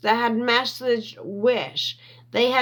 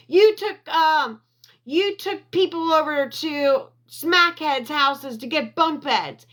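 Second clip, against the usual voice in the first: heated yelling; 7 semitones higher than usual. Real, not acted. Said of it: "I'm sorry for screaming".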